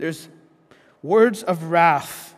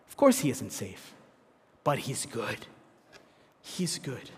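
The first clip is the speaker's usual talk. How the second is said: gentle hushed reply; 6 semitones lower, 9 dB quieter than usual. Retold or imitated. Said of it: "the reply came to her".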